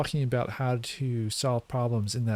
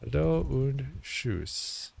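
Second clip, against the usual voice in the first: put-on kid voice; 2 semitones higher, much slower than usual. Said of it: "This new kid voice is wild".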